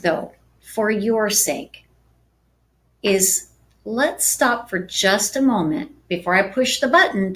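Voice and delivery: calm reassuring agent voice; soothing, unhurried reassurance; calm, soft and slow. Shown as a demonstration. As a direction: speak softly and slowly to a nervous client. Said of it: "did you notice that I'm very calm and I talked a little softer".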